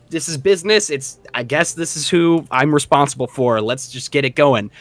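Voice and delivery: lightly voiced businesslike gnome; a hint of the brisk little jailer. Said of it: "This gnome is like".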